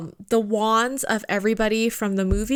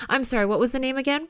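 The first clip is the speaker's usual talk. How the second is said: quick, higher clerk out of character; baffled clerk imitation; 4 semitones higher, faster than usual. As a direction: rattle it off as the confused employee. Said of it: "she's like".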